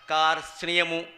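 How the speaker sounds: "కార్స్నియము" said firmly with r, t, s, n, y joined; full consonant cluster. Shown as a demonstration. Teacher sums up the stacked letters, firmly sounding all of "కార్స్నియము". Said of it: "రా కింద తావొత్తు".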